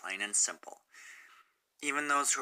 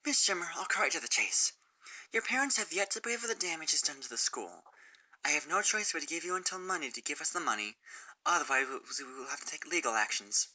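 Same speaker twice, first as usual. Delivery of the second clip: stern principal voice pitched higher; Principal Celestia; 5 semitones higher than usual. Acted. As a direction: speak as a firm but regretful principal.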